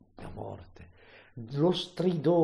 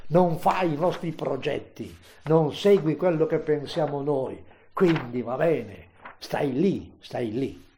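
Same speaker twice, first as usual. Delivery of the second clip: louder, accusing mockers' voice; scornful reproach; 2 semitones higher, 6 dB louder than usual. Mockers reproaching Jesus on the cross, loud and scornful. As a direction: throw the reproach at him, then let it drop.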